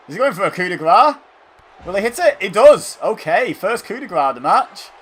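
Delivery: high, loud play-by-play building to the hit; excited commentary. Real, not acted. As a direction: call the big move with rising excitement. Live call of a finishing move.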